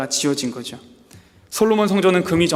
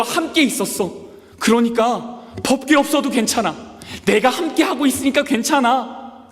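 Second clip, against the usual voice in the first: God comforting; 8 semitones higher than usual. Acted. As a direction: reassure a weeping people gently. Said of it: "하나님이 하신 말씀이 뭔가 하면 이거예요". (높고 느리게 달래는 하나님 목소리)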